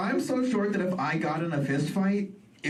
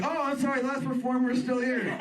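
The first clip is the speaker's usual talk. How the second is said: lightly voiced show host; apologetic host; 9 semitones higher than usual. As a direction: play the host gently correcting. Host mistakes him for kid.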